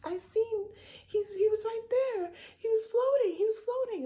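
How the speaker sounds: put-on high, loud, panicky kid; frightened child shouting. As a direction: yell it like a terrified child pointing. Terrified child telling grandmother.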